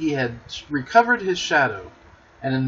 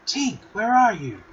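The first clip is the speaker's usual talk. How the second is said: Peter calling; 8 semitones higher than usual. A narrator's reading. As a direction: call out for Tink like an eager boy. Peter searching for the fairy.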